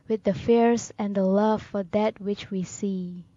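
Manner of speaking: steady, declaimed verse with stressed key words; poem recitation. Acted.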